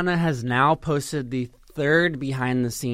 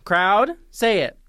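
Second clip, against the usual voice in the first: loud, slow call to the crowd; rally the crowd loudly; 8 semitones higher, 7 dB louder than usual. Acted. Calling on the audience.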